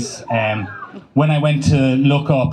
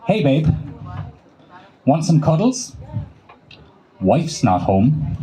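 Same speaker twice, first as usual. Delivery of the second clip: mock seductive text; slower than usual. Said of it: "I'm like".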